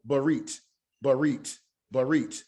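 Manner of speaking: Barit with a quick, clipped first vowel; short hurried Barit. Shown as a demonstration. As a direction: hurry the first syllable of Barit. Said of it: "making it short and hurried".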